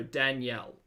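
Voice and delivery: Danielle ending in a full "ell"; L sounded as "ell". Shown as a demonstration. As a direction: say Danielle as dan-YELL. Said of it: "L is pronounced L".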